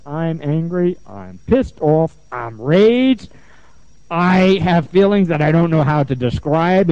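slow, emphatic mock venting; imitated anger. Client beating the pillow, slow angry venting. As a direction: spell out each angry claim slowly. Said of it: "try saying you're angry and hitting it".

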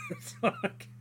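real laugh. Real, not acted. Laughs at his own practice.

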